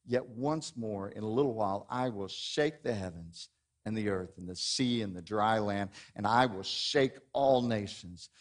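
measured, solemn Bible reading; scripture reading. Acted. Pastor reads Haggai to the church, solemn reading. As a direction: read the prophet's words aloud to the congregation.

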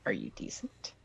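low, soft murmur; muttered. Acted. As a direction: murmur discreetly through a curtain.

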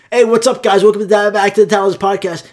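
hammed-up shouting welcome; mock podcast yell. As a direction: yell the intro like a hyped host. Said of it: "just start yelling".

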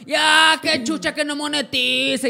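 loud, high mock complaint; Rob's loud quote. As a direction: belt it like a fed-up friend. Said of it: "Y sale Rob".

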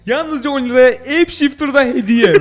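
high, pushy sales pitch; ad announcer voice. Pretend. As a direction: shout out the offer. Joins ad parody. (reklam spikeri sesi)

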